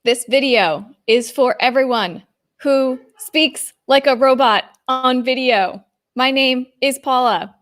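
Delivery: stiff, robotic on-camera voice. Shown as a demonstration. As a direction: read it like a robot on video. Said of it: "I'm exaggerating".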